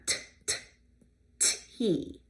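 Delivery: "tea" with a front tapped t; tappy T. Shown as a demonstration. Teacher contrasting tappy and throaty sounds. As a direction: tap the t in "tea". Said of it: "that's a tappy sound".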